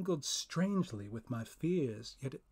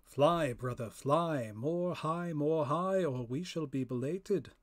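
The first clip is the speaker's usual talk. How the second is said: louder, urgent call to fly; a spirit calling out to hurry; urging call; 2 semitones higher, 4 dB louder than usual. Acted. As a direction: spur your brother spirit upward. Second spirit urges his brother.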